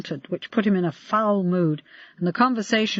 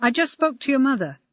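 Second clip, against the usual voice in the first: higher-pitched, gently sympathetic; loving, sympathetic; 6 semitones higher than usual. A narrator's reading. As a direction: try to sound like an understanding father. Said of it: "trying to sound loving and sympathetic".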